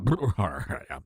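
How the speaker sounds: a short low laugh covered as a throat problem; snort of laughter. Real, not acted. Host laughing at a quote, snort of laughter. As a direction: laugh mid-sentence then cover it. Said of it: "Can you get me a throat lozenge".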